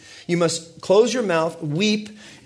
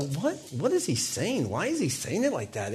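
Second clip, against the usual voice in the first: stunned inner thought; 8 dB quieter than usual. Retold or imitated. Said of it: "I thought".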